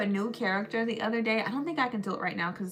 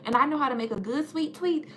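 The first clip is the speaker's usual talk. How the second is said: put-on Southern country girl; 5 semitones higher, 4 dB louder than usual. Country girl inviting folks to go hunting, Southern accent. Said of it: "I'm just a country girl from the South".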